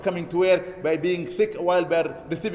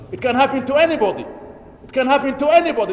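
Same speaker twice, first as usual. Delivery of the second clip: raised, louder preacher warning repeated; emphatic warning; 6 semitones higher, 5 dB louder than usual. Real, not acted. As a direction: hammer the warning home twice. Warning congregation about sudden death.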